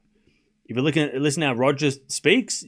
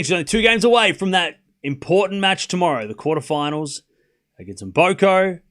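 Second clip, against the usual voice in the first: live play-by-play; 3 semitones higher, 3 dB louder than usual. Real, not acted. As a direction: call the match, stretching key phrases.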